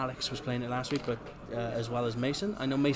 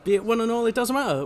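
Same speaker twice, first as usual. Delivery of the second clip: hammed-up promo; 6 semitones higher, 6 dB louder, faster than usual. Hamming up the promo ending.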